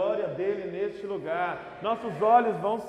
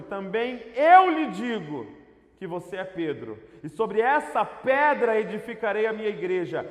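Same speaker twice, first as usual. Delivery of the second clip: emphatic scripture reading; 3 semitones higher, 6 dB louder than usual. Acted. Reads scripture with preaching force.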